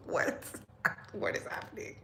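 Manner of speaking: breathless, voiceless laughing; helpless laughter that swallows the words; real laughing disbelief. Real, not acted. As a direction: crack up, barely getting the question out. Cracks up after reading absurd tweet.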